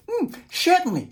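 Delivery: a pleasant kangaroo saying yes. Acted. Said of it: "said the kangaroo".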